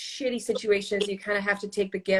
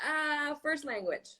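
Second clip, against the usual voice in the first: dry retort; 6 semitones higher, 6 dB quieter, slower than usual. Retold or imitated. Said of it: "I'm like".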